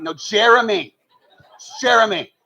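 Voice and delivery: insisting through laughter; laughing insistence. Retold or imitated.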